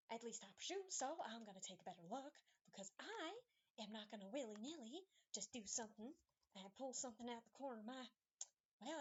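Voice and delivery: a hint of a determined, folksy character; lightly voiced fussy Nanny. Player as Nanny inspecting the door, lightly huffy. Plays Nanny talking to herself.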